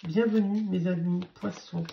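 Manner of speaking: raspy, worn-out voice; talking through a hoarse throat. Real, not acted. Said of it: "ma voix éraillée".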